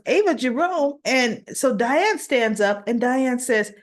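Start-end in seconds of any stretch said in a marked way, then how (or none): 0.1-1.0 shocked repeat. Retold or imitated. Alexis hearing her accuser named, shocked disbelief. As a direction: echo "Ava Jerome?" in disbelief, pitched up. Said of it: "And she goes".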